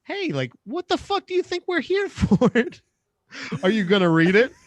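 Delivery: mock a mom scolding her kid, rising. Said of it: "like a mom".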